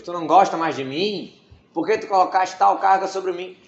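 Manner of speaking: pleading Moses. Retold or imitated. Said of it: "Moshe falando assim com Deus".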